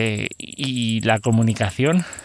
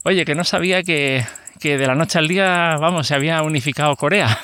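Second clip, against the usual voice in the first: higher-pitched quote of a surprised dad; lightly acted father calling out, pitched up; imitated father; 5 semitones higher than usual. Father teasing his son about the girlfriend's South Korean accent, imitated father. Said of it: "el padre va y le dice".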